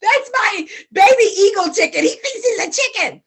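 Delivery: high, chuckling as he speaks; tickled farmer, high and laughing. Acted. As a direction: laugh the words out, amused. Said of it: "the farmer laughed".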